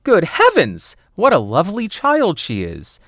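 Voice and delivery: high, loud astonished cry; wonder and astonishment. Acted. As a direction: gasp it out in wonder. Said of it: "cried out with wonder and astonishment".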